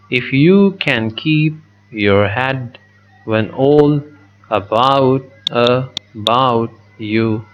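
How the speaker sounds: slow, every second syllable stressed; iambic reading. Shown as a demonstration. Teacher reading a line of verse to show the meter, slow and stressed. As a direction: tap out the da-DUM beat as you read. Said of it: "then again unstressed and stressed".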